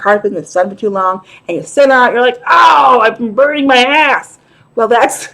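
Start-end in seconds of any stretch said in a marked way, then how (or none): 2.5-4.4 comic hot-seat outcry; mock pained cry. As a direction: play up getting scorched. Acts out sitting on hot seat.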